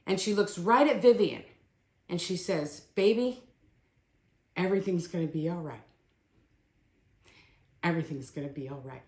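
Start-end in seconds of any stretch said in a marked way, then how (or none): 2.9-9.0 retold mother soothing her child; gentle reassurance. Dying mother's last comforting words.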